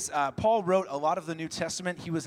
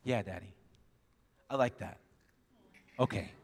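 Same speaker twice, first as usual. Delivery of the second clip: put-on soft child's reply; 8 semitones lower, 5 dB quieter than usual. Little daughter softly accepting reassurance.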